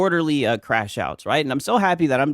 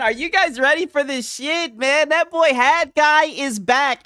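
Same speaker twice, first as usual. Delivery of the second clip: hyped up; 8 semitones higher than usual. Real, not acted. Hype streamer intro.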